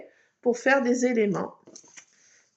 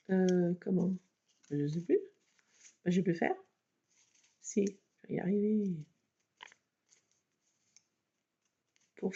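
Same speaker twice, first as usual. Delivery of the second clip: muttering to herself; 4 semitones lower, 6 dB quieter than usual. Real, not acted. Struggling while cutting.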